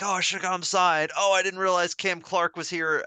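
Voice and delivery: exasperated self-reproach, acted out; retold regret. Retold regret at missed autographs.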